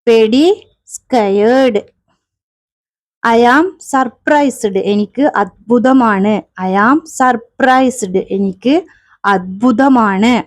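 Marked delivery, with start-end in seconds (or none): 3.2-4.7 each word drawn out for the class; very slow drill. Shown as a demonstration. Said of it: "teacher drilling phrase". 6.7-8.2 each word drawn out for the class; very slow drill. Shown as a demonstration. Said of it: "teacher drilling phrase".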